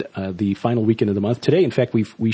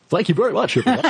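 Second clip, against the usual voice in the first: smooth radio announcer sign-off; 10 semitones higher than usual. Shown as a demonstration. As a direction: put on the broadcaster voice. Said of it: "I can do the radio voice really well".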